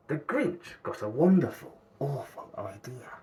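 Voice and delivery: hushed scheming whisper. A narrator's reading. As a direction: breathe it like a dark secret. Narrator savors the Grinch's scheme.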